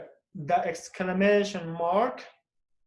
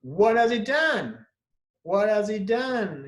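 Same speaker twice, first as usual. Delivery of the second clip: exclamative; 3 semitones higher, slower than usual. Shown as a demonstration. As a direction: exclaim it, leaning on "done". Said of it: "change it to exclamative like this".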